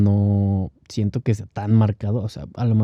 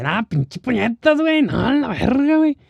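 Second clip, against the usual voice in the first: put-on Monterrey stereotype accent; 14 semitones higher than usual. Mocking the Monterrey stereotype, exaggerated norteño accent. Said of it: "el estereotipo de Monterrey".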